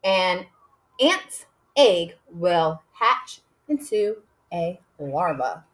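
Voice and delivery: slow, word by word dictation. Shown as a demonstration. Teacher dictating to kindergarteners, slow and deliberate. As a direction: say each word slowly for writing. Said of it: "my next sentence will be".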